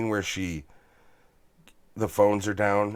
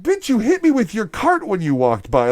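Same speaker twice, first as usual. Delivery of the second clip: joking voiceover; 11 semitones higher, 6 dB louder than usual. Pretend. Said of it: "the way he looks at her is like".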